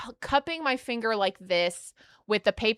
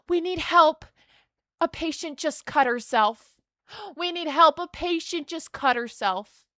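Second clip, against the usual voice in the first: alarmed call for help; 5 semitones higher than usual. Retold or imitated. Staff shouting that a patient cut herself, alarmed. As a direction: retell the staff calling out with a gasp. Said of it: "here's what they keep saying".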